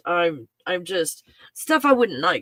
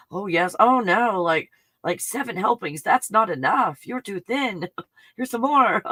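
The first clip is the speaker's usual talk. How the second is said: light fussing mama, laughing through it; doting Italian mom; 3 semitones higher than usual. Pretend. Dog mom urging her puppy to eat, mock Italian mama. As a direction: push more food like a nonna. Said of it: "feeling like an Italian mom".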